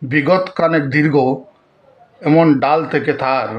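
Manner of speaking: measured recital with long pauses between lines; poem recitation. Acted. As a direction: recite verse line by line, deliberately. (ধীরে, থেমে থেমে কবিতা আবৃত্তি)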